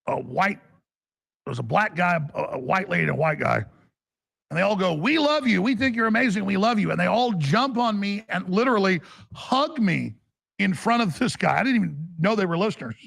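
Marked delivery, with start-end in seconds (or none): 4.9-6.9 gushing fans. Retold or imitated. Retold fans gushing at airport.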